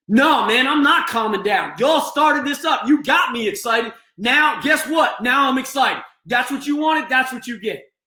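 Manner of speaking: high shouted defiance, slowing on key words; shouting patient refusal. Shown as a demonstration. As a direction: yell back that you won't calm down. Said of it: "That type of behavior".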